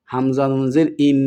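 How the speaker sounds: ইন with a lengthened nasal n; ghunnah. Shown as a demonstration. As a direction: hold the ন of ইন as a hum in the nose. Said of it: "গুন্নার সাথে পড়তে হবে". (ইন-এ গুন্নাহসহ উচ্চারণ)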